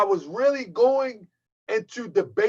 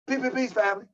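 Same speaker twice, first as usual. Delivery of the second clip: Pharaoh Allah squeaky voice; much faster than usual. Retold or imitated. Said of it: "That's what he do".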